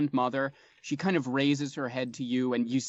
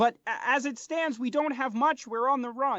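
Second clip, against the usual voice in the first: very high-pitched voice; 11 semitones higher than usual. Voicing the interpreter as he turns and speaks to you: frogfolk interpreter voice. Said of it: "But the interpreter listens and turns to you and says, / and they confer in the Gripply language for a moment before he turns back to you and your companion and says, / The interpreter turns to your companion, and th".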